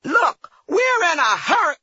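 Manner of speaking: sharp, high, loud snap; snapping back. Retold or imitated. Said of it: "The woman snapped back".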